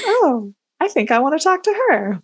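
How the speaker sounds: high, giggly quote; laughing. Retold or imitated. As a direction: say it through a laugh. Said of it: "So I was like".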